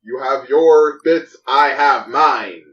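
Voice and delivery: Jarl voice. Acted. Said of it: "This is not a bit if it keeps going".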